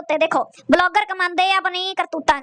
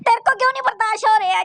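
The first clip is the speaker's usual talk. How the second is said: mocking imitation; 4 semitones higher than usual. Mocks the clip's tearful complaint.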